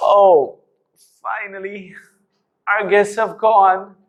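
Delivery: weepy, near-tears voice. Demonstrating the same line in different tones, now in a crying tone. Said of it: "Now, in a crying tone".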